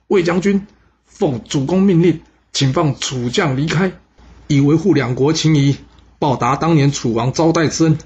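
high, loud call across the battlefield; shouting. Acted. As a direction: call out the order to stop. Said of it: "大喊". (传令兵高声大喊)

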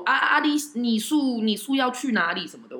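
put-on light Taiwanese-accented Mandarin, slow. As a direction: imitate a driver's Taiwanese Mandarin. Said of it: "有一些腔调".

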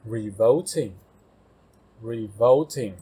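revolting said twice, slowly and clearly; teacher models revolting, slow careful reading; slow model word. Shown as a demonstration. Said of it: "下一个revolting".

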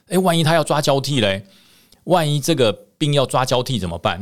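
high-pitched, anxious what-if; alarmed doubt. Retold or imitated. Officer torn over trusting the ghost, alarmed.

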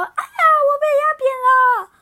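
high, loud, fast squeaky critter voice; little snake. Acted. Snake complaining as the crying grows, high and fast. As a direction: chatter it out like a tiny panicked creature.

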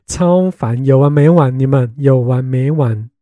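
loud, exasperated, slowing on the repeat; fed-up outburst. Real, not acted. Sick of classmates asking about monks, loud and fed up. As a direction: shout it out, sick of hearing it.

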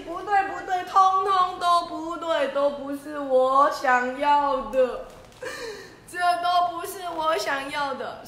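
lion furious at all the letters; angry protest. Acted. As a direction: stamp down every word. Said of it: "狮子好生气哦".

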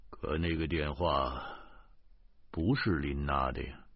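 stern. A narrator's reading. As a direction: set him straight gravely. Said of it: "警察严肃地说".

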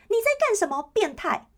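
high, loud shout at the groper; loud yell. Pretend. Girl on the bus shouting at the pervert, loud high yell. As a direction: call him out loudly so the whole bus hears. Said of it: "故意叫得很大声说".

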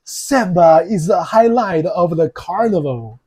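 animated demo with bigger pitch swings; with expression. Shown as a demonstration. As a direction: put some show into the example sentence. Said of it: "要用这个表情吗？".

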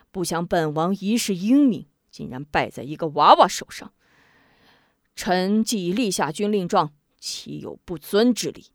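ashamed sigh. Acted. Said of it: "羞愧而叹".

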